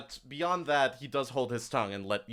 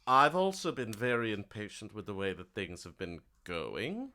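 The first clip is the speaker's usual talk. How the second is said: mildly silky NPC; 4 dB quieter than usual. Acted. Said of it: "so he goes".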